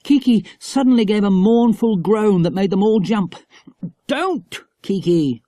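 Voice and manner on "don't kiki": cross. Acted. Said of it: "said Jack crossly".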